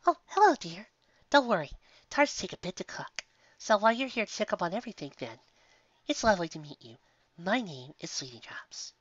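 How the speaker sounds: high, gentle motherly mare calling out; a kindly shopkeeper voice, lifted high; sweet baker mare. Acted. Baker calling to guests from the oven, sweet and high.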